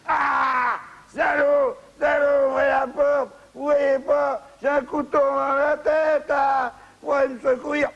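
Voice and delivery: desperate pleading. Acted. Stabbed man begging at locked door.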